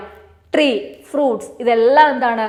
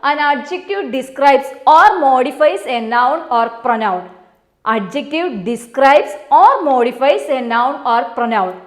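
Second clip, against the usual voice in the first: slow dictation; much slower than usual. Shown as a demonstration. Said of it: "ഇവിടെ നോക്കാം".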